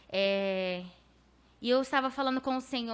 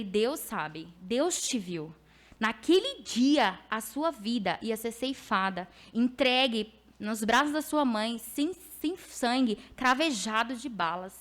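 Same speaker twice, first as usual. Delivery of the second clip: slow weighty prophetic words; prophetic declaration; 3 dB louder, slower than usual. Acted. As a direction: pronounce it slowly like a prophecy. Prophetic word to young man.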